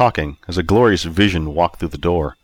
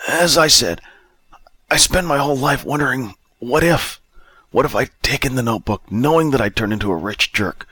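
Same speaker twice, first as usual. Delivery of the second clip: higher down-and-out character voice; destitute drunk Bob, regretful; 6 semitones higher than usual. Acted. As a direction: wonder aloud as a regretful drunk.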